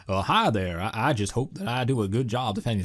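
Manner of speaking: lightly voiced cartoon lawyer with swooping pitch; Simpsons anti-evolution lawyer. Co-host quotes the lawyer from the evolution debate, lightly put-on voice. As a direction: imitate a folksy cartoon defence lawyer. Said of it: "the guy who's arguing against evolution's like".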